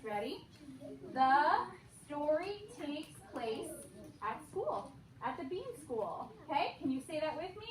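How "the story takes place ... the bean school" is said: slow sung-out model sentence; broad singsong kids theatre. Shown as a demonstration. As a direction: lead the class in a chant. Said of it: "Let me model for you first".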